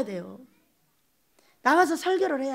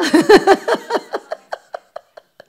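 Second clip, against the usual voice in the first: a big high laugh bursting out; loud rising laugh; 6 semitones higher, 9 dB louder than usual. Real, not acted. Preacher to congregation, laughing over chives and weeds, loud.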